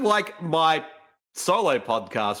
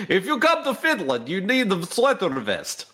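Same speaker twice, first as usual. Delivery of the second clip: mock Finnish accent; 5 semitones higher than usual. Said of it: "I don't know what the Finnish accent sounds like".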